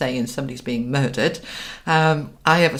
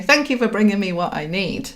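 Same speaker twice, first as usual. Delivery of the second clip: higher-pitched, assured thanks; receiving gratitude; 4 semitones higher than usual. Shown as a demonstration. Coach models the wording for asking the universe, grateful. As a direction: give thanks as if already receiving. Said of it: "which is a receiving energy".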